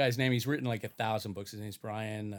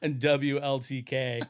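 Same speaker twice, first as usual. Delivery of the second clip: slow radio station ident; morning zoo DJ; slower than usual. Acted. Spoofing a wacky morning show, radio DJ voice. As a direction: draw out the call letters like a DJ. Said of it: "sounds like the Wacky Morning Zoo Crew".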